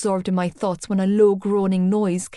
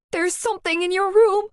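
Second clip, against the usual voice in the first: panicked scream; 11 semitones higher than usual. A narrator's reading. Girl to Johnny at the door, screaming in panic. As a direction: blurt it out, in a panic. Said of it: "I screamed".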